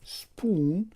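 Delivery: سپون with a long oo and a rising end; English word spoon. Shown as a demonstration. Teacher introducing the English spoon to learners. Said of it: "کلمهٔ دیگر رو داریم".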